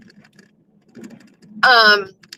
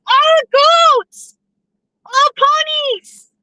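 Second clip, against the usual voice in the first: excited squeals; slower than usual. Real, not acted. Excited at seeing farm animals.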